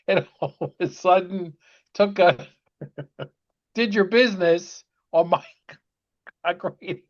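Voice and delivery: words broken up by chuckles; laughing while telling. Real, not acted. Father retells son peeing on his radio, laughing as he talks. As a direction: tell it through real laughter.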